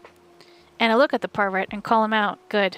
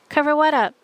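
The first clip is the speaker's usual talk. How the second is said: indignant; 7 semitones higher, 5 dB louder than usual. Acted. Beck protesting, indignant.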